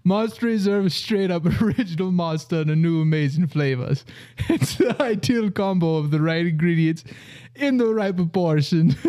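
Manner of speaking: put-on Jamaican-accented ad read, breaking into giggles. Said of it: "read the whole thing in a Jamaican accent".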